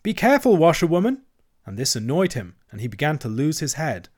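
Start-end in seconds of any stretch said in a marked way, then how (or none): 0.0-0.6 high, loud warning call; loud warning shout; warning cry. A narrator's reading. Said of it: "cry out warningly". 0.6-1.2 high, loud, rising warning; warning cry. A narrator's reading. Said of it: "cry out warningly".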